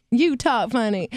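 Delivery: English speaker trying a Southern accent; attempted Southern accent. Shown as a demonstration. Singer gives in and tries it for the hosts, Southern accent. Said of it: "Do your Southern accent".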